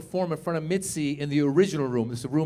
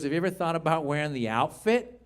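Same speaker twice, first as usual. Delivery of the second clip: Mitzi. Retold or imitated. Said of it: "That's how she would talk".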